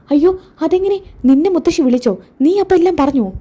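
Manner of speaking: high, dismayed string of questions; alarmed questioning. Acted. Mother quizzing son over leaked secret, alarmed. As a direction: fire off questions in rising alarm.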